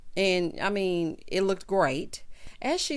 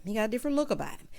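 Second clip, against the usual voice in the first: quick aside; 2 semitones higher, much faster than usual. Shown as a demonstration. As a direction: toss it off fast under the breath. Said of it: "repeated line".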